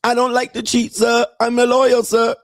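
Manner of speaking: put-on high, broken-English Thai girlfriend voice; mock Thai accent. Mocking Thai girlfriend asking her man for money in a high accented voice. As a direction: imitate a Thai bar girl pleading for money.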